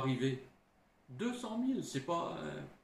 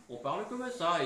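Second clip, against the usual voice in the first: Midi accent; 4 semitones higher, 4 dB louder than usual. Shown as a demonstration. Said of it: "Dans le Sud".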